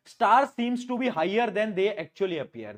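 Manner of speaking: very slow word by word dictation; spaced out dictating voice. Shown as a demonstration. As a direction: read it out slowly for notes. Reading a textbook line slowly.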